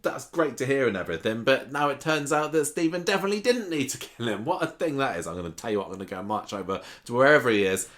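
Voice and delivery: mildly acted huffy outburst, high at first. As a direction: retell it in a huff. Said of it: "gets all huffy and says".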